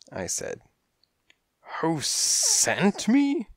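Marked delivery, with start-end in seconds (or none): 1.8-3.5 high, drawn-out incredulous splutter. A narrator's reading. Cat boss indignant at being asked, spluttering. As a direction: throw the question back, slow and very high. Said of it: "he spluttered".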